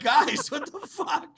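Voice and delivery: high, slow, loud disbelieving outburst; a hammed-up cry of disbelief at the boss; retold outburst. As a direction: stretch it out in shocked disbelief. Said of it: "I'm like".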